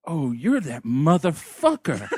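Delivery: slow put-on barfly needling; mildly hammed-up hostile heckle; antagonizing. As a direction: draw it out like picking a fight. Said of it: "like, antagonizing".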